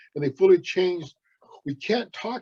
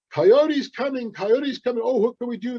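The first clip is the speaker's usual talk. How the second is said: worried guards; 6 semitones higher than usual. Acted. Guards warn of Coyote.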